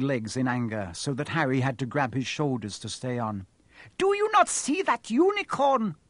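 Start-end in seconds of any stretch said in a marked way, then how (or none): 4.0-5.9 bellowing. A narrator's reading. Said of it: "Firenze bellowed at Bane".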